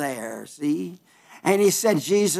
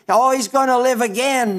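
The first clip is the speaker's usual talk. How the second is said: mock wrong reading; 4 semitones higher than usual. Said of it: "He doesn't say".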